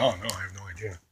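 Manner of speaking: low, soft and unconcerned; quietly imitating someone unbothered; imitated unbothered reply. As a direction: answer softly, not upset at all. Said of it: "legitimately not getting upset or anything".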